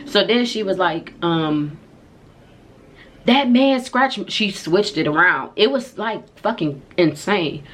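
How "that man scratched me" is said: high, loud, slow mock wail; drawn-out, hammed-up complaint; wailed accusation. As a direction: imitate an outraged friend accusing someone. Friend's accusation retold.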